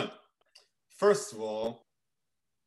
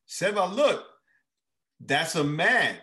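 put-on child voice; 4 semitones higher than usual. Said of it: "Sonia tells Seba".

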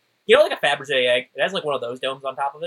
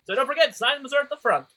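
booming announcer; 12 semitones higher than usual. Acted. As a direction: boom it to the crowd. Announcer voice continues.

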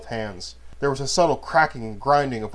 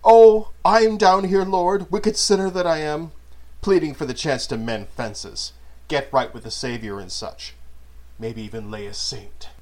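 hammed-up pleading sinner, much higher and louder at first; mock prayer; 5 semitones higher, 6 dB louder than usual. Manon on his knees mocking Apostos with a fake prayer. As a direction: pray like a ham actor, then let it sink into a smirk. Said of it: "as if he was to prayer".

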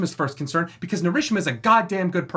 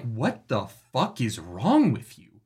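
drawn-out, slow exasperated demand; indignant disbelief; 4 semitones lower, slower than usual. Retold or imitated. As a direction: spell out your outrage word by word. Retold outraged reaction to a character.

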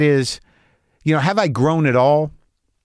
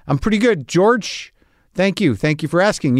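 pitched higher, eager and a bit flustered; starstruck eager reply; 4 semitones higher than usual. Retold or imitated. Flustered fan answering George Clooney, higher and eager. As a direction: gush back at a movie star who knows your name.

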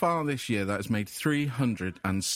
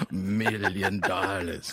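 slow, drawn-out villain voice, pitched lower; lower, very slow mock-villain drawl; Doctor Evil; 4 semitones lower, much slower than usual. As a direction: savour each word like a comic supervillain. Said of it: "Doctor Evil".

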